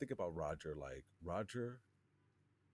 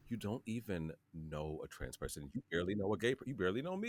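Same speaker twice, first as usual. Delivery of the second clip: exasperated; 2 semitones higher than usual. Retold or imitated. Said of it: "and I'm like".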